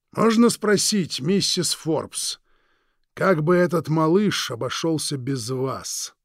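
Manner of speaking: slow, silky, threatening drawl; menacing villain. Acted. Villain Krieg menacing the Forbes couple, slow and silky. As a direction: savour each word like a veiled threat.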